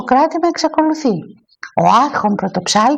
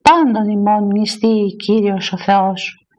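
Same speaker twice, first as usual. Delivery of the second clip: slow, solemn priestly intonation; measured church proclamation, nearly on one note; liturgical exclamation; 3 semitones lower, slower than usual. A narrator's reading. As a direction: intone it slowly as clergy in procession. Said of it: "αναφωνούντες εις το δρόμον".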